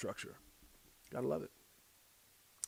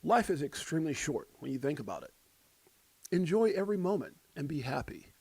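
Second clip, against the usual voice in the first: lightly put-on radio host; a touch of smooth on-air announcer. Shown as a demonstration. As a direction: deliver it like a radio presenter. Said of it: "I get that radio voice".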